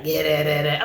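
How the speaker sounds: low mock phone-caller mumble; dropped-pitch parody of his talk; mimicking the man on the phone. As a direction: imitate his low monotone babble. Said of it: "He get on the phone and he's like".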